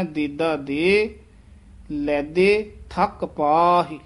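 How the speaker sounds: ਦੇਦਾ and ਲੈਦੇ slow, without nasalizing; no nasal sound. Shown as a demonstration. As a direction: keep ਦੇਦਾ, ਲੈਦੇ free of any n sound. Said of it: "ਜਿੱਥੇ ਬਿੰਦੀ ਨਹੀਂ ਲੱਗੀ".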